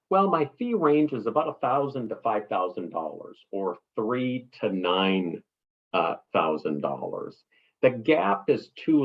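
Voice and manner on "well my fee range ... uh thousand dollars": wrong fee answer. Shown as a demonstration. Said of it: "it is never".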